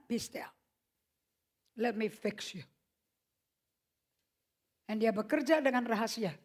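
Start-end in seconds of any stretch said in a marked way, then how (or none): 0.1-2.7 soft command. Acted. God's voice quoted softly.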